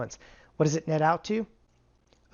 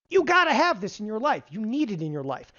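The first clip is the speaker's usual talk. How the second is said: emphatic pitch; 4 semitones higher than usual. Acted. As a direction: hammer home that they need it. Salesy emphatic pitch to viewers.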